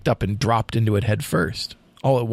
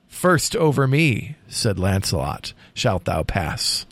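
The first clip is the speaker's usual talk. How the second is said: dramatic poem reading. A narrator's reading. Host reads the final lines to co-host, dramatic poem reading. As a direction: read the tale as solemn storytelling verse. Reads poem's ending aloud.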